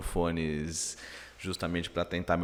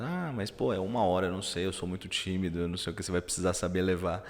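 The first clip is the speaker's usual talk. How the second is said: imitating hesitant guests; faster than usual. Shy people turning down an hour's interview, mock reluctant. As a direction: lightly mimic shy people rattling off excuses. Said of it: "chegam pra mim e falam".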